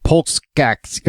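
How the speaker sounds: put-on quick stab at a Russian accent. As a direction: say the name like a Russian. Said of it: "Try it with a Russian accent".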